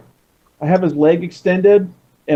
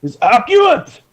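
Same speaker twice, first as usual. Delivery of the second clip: put-on Japanese accent; 4 semitones higher than usual. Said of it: "my Japanese accent is accurate".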